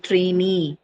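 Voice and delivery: "trainee" stressed on the final "ee"; stress on second syllable. Shown as a demonstration. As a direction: lean on the long "ee" ending of "trainee". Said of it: "shift the stress to the second syllable".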